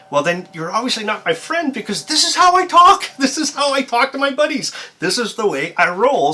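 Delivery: high, loud, over-the-top enthusiasm; hammed-up, high-pitched hyper self-demonstration; amped up. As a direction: crank your natural energy up to triple. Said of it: "Oh, you're so amped up".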